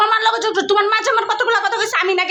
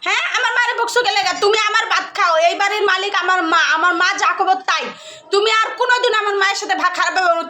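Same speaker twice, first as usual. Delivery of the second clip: mock scolding; 2 semitones higher than usual. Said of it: "আমি তোমার কটা বকা দিব".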